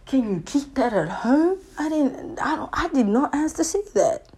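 high-pitched put-upon protest; acted-out indignant bystander; mock indignant. Reacting to a yelling couple.

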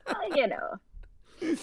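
whispered aside. Real, not acted. Wry aside after judging.

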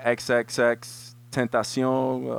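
the rapper's name said slowly in a Spanish accent; name said the Spanish way, slowly. Real, not acted. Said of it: "I keep saying it with a Spanish accent".

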